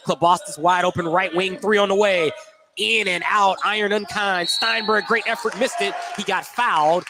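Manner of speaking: play-by-play of a missed three; excited call. Real, not acted. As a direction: sell the shot and the miss.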